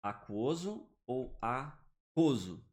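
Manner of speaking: "Aquoso ou aquoso" said slowly, first with the U, then without; slow contrast. Shown as a demonstration. Teacher contrasting both readings for students. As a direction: set the two readings of "Aquoso" side by side, slowly. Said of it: "Como é que a gente lê?".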